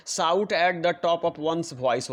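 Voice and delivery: very slow, each word spaced out for the class; slow dictation. Shown as a demonstration. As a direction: read it out word by word as if dictating to pupils. Teacher dictating idiom. (बहुत धीरे, शब्द-शब्द बोलकर लिखवाना)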